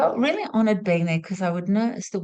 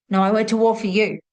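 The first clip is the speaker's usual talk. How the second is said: louder, quicker imitated comeback; insistent retort; 5 dB louder, faster than usual. War veteran contradicting his nurse, insistent. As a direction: push back firmly, voicing a stubborn patient.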